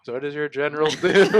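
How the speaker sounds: fast mocking echo, laughing; mocking quote through laughter. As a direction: giggly parody of the question. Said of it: "and you're like".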